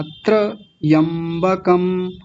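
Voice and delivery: slow त्रयंबकम with a very short tra, then yam-ba-kam; quick r. Shown as a demonstration. Teacher showing the halved letter, short tra in slow त्रयंबकम. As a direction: flick the r in त्रयंबकम, stretch the rest. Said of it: "र बड़ा जल्दी बोला जाएगा".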